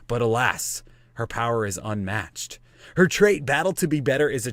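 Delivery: epic trailer narrator, lightly done; movie trailer voice. Acted. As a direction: announce it like a film trailer. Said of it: "I have to talk like I'm a movie theater trailer person".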